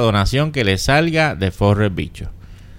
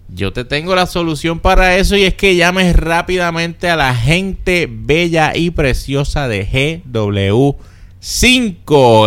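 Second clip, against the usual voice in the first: upbeat radio ad voice; ad read. Acted. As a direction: sell it like a commercial. Reads an ad for GW5.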